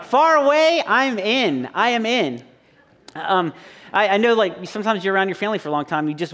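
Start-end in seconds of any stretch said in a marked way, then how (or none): 0.0-2.4 eager volunteer. Retold or imitated. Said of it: "you guys are like".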